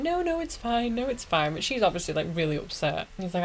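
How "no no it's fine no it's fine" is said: high-pitched mock reassurance; imitated reassurance. Sakura tells upset Naruto it's fine, imitated high reassurance. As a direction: voice her high, brushing the worry away.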